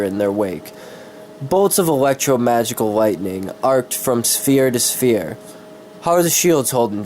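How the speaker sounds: steady, descriptive fantasy read; story narration. Acted. Streamer reads his fantasy story to viewers, descriptive narration. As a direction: paint the scene like an audiobook.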